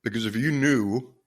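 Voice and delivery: fighting back tears to keep talking to listeners; choked up with emotion. Real, not acted. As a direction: voice catching, long pauses between phrases. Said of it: "I get pretty emotional about this stuff".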